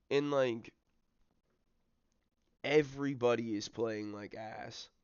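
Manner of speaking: frustrated rant. Real, not acted. Ranting at his team.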